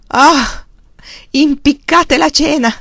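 high, loud, slow exclamation; joyful singsong. A narrator's reading. Husband brushing supper aside, singing out with joy. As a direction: crow it happily, drawing it out. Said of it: "cantò lui con gioia".

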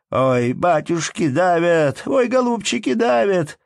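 high mock wail of being crushed; wailing townswoman. A narrator's reading. Townswoman crushed in the fair crowd, high hammed-up wail. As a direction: cry out as the crowd squeezes you. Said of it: "вопиёт".

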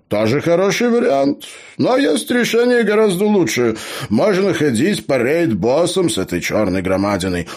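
high, loud, enthusiastic gnome voice; excited gnome. Acted. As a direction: sell the better plan with high-pitched glee. Gnome enthuses over better plan.

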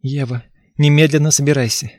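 stiff-lipped command; numb lips. Acted. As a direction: speak through numb lips. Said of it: "приказала онемевшими губами".

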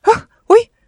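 sudden high loud yelp; startled cry. A narrator's reading. Uncle caught at the box, startled yelp. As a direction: jump with fright and cry out. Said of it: "воскликнул дядя и отскочил".

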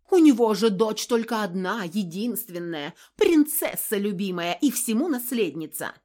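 loud, high, furious accusation; woman screams the family secret, hysterical; hysterical rant. Acted. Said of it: "в истерике".

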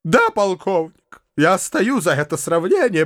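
a touch of wounded accusation; mild hurt reproach to the colonel; Foma's indignant reproach. A narrator's reading.

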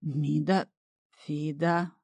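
slow puzzled bass; puzzled repetition. A narrator's reading. A hint of bog master fumbling the name, slow. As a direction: sound it out baffled. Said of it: "озадаченно повторил Хухлик".

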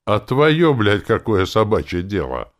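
loud, high, cutting challenge; angry retort. A narrator's reading. Narrator voices an angry retort.

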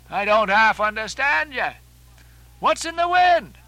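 puzzled sailor calling out a question; puzzled questioner. Acted. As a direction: ask loudly, baffled, pitch jumping up. Stubb questions the agitated Starbuck.

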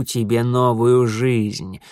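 very slow, ominous lord of darkness; dark lord. Acted. Setil's slow promise.

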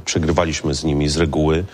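strained, hoarse throat. Real, not acted. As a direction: speak through a hoarse throat. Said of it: "przepraszam za mój głos".

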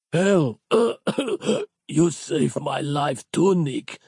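high, slow words broken by a cough; coughing Capello. A narrator's reading. Capello coughing his thanks to Nick. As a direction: cough your way through it. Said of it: "coughed Capello".

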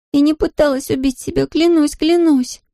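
put-on high, earnest teenage girl pleading; girl swearing she didn't try it; pleading daughter. A narrator's reading. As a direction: swear it to your father, voice pitched high.

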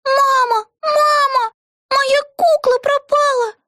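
put-on very high wailing child; a small girl crying over her lost doll; squealing little girl. A narrator's reading. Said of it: "завизжала её маленькая дочка". (визг маленькой девочки)

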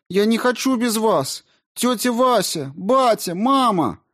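very high, tearful calling; little girl sobbing for her aunt and parents; crying child. A narrator's reading. (девочка плача зовёт тётю и родителей, очень высоко)

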